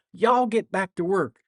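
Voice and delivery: high, loud mock Southern order; student mimicking teacher. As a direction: imitate a pupil ordering classmates around. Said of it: "looked at her peers and said".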